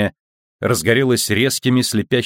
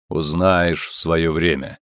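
mocking metallic voice; 4 semitones lower, slower than usual. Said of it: "насмешливый металлический голос".

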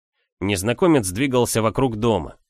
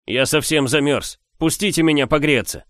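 louder, higher pleading man; pleading stranger; 6 semitones higher, 4 dB louder than usual. A narrator's reading. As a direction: beg to be let in from the cold. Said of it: "Это был мужской голос".

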